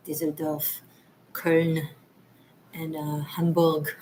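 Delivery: put-on "Düsseldorf" in a German accent, final R dropped; ridiculous German accent. Listing cities she worked in, playful German accent. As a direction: say the city names as a mock German would. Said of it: "Sorry for being ridiculous with the accent".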